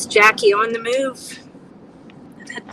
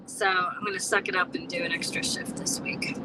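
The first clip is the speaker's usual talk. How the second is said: whispering; 3 semitones lower, 8 dB quieter than usual. Real, not acted. Resigned aside to self.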